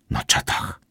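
short, hushed answer; curt reply. A narrator's reading. Ewa tells where Wilhelm is, curtly. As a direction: answer briefly under the breath. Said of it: "odrzekła krótko Ewa".

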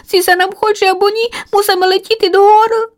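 high, urgent little bird voice; determined scared chick. Acted. Chick resolves to fly up away from the tomcat. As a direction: push through the fear and decide.

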